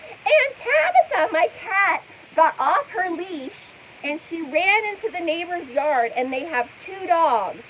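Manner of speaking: mock her breathless hyped-up story voice; exaggerated impression of a hyper streamer; hyper, almost screaming. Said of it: "hyper, like, almost screaming".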